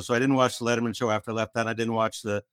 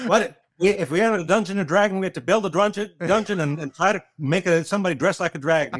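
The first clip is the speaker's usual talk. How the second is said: put-on cranky old-timer rant; 5 semitones higher than usual. Mock old-timer rant continues.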